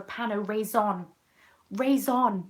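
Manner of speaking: "Raisin" as ray-ZON; imitated over-French attempt. Imitating a hard-trying customer, "Raisin" as ray-ZON. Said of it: "they were trying really hard".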